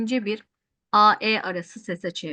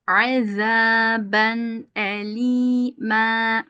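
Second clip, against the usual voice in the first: slow drawn-out chanted recitation; Quran recitation; much slower than usual. Shown as a demonstration. Teacher reciting the verse for students. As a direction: chant each vowel long and even. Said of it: "teacher recites Quran verse".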